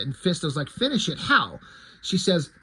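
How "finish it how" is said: lightly acted disbelief, pitch jumping high; incredulous question. Fisto doubts She-Ra's plan, mildly incredulous. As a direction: question it high, then drop on the last word.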